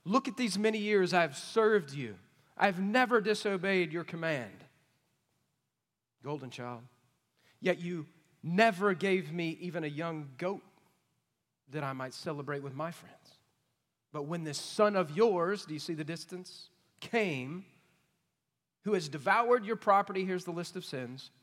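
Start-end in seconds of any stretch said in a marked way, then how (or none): 0.0-15.6 put-on resentful older brother, louder and hard; angry older son. Older son to his father, resentful and loud. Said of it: "Here's why he's mad". 17.0-20.2 put-on resentful older brother, louder and hard; angry older son. Older son to his father, resentful and loud. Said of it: "Here's why he's mad".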